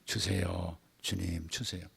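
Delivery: soft low pleading prayer; humble plea. Shown as a demonstration. Believer softly pleading with the Lord. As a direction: quietly beg the Lord. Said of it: "그냥 이렇게 기도하는 거예요".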